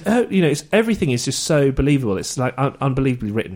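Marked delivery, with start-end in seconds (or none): 0.0-2.2 light mock posh anchor; a hint of a posh English lady; fake posh voice. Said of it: "And she goes".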